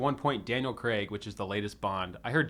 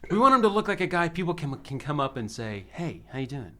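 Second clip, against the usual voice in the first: laughing mock exec; 4 semitones higher, 3 dB louder than usual. Mocking studio, laughing.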